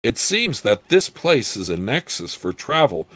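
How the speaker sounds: lively storybook reading with swooping emphasis; story narration. A narrator's reading. Reader telling a gnome's tale of portals, in story narration. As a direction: read it out with measured, emphatic phrasing.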